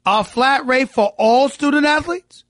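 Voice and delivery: slow, high, disbelieving question; incredulous. Real, not acted. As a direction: repeat it like you can't believe it. Host repeats the claim in disbelief.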